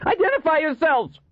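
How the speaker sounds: high, urgent shouted order; alarmed high-pitched command; shouted challenge. Acted. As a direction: demand it loudly down the shaft. Officer challenges unknown climbers.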